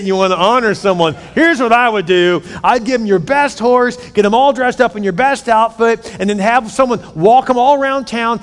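cocky Haman showing off; arrogant eagerness. Acted. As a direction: lay it out like you're sure it's about you. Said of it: "Haman is so arrogant".

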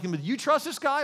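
king's question pitched well up; leaning over to ask a trusted aide. Retold or imitated. King asks Potiphar about Joseph, mock questioning.

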